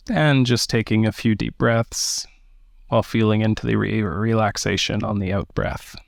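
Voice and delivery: measured meditation guidance with long pauses; unhurried meditation teacher, phrase by phrase; guided meditation. Acted. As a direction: guide listeners gently into the breath, leaving space between phrases.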